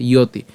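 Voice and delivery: "ইয়তি" as iyo-ti; y-glide pronunciation. Shown as a demonstration. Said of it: "জফলার উচ্চারণটাকে ইয়". ("ইয়তি" ইয় ধ্বনি স্পষ্ট করে)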